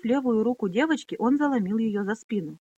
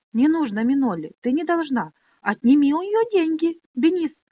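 hissing; 7 semitones higher, 6 dB louder than usual. Acted. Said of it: "прошипела Пони".

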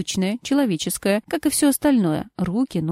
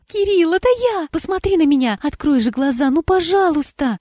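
high, louder pleading call to him; 7 semitones higher, 3 dB louder than usual. Acted. Wife begging her husband to wake, pleading call. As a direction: beg him to open his eyes.

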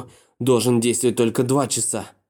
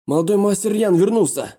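high excited announcement; excited shout; 9 semitones higher than usual. Acted. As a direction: burst in with the news. Servant bursts in announcing.

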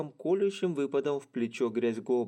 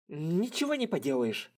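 grumbled complaint; grumbling; 5 semitones higher than usual. Acted. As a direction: grumble it reluctantly. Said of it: "проворчал Ранта".

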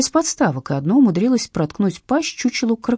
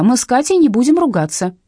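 calling out; 6 semitones higher, 6 dB louder than usual. Acted. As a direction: coax the hiding dog out loud. Calling to hidden dog.

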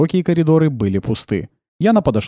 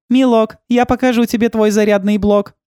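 playfully; 11 semitones higher, 4 dB louder than usual. A narrator's reading. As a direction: tease the robot. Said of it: "играюще сказала Яна". (Яна игриво дразнит робота)

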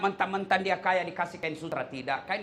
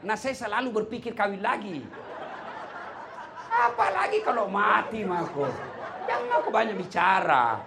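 higher, laughing through the words; laughing tease; 6 semitones higher than usual. Acted. Preacher voicing himself teasing his wife, laughing.

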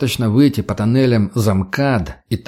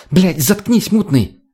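barking; 7 semitones higher, slower than usual. Acted. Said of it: "рявкнула Лена".

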